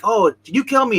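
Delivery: high, loud mock-indignant question; retold accusation. Agent confronting Dwight in his hotel room, retold accusation.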